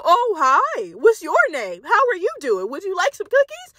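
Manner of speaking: a hint of a creepy stranger cooing at a toddler. Middle-aged man cooing at a toddler, lightly voiced creepy sweetness. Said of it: "some weird-ass middle-aged white man bend down and go".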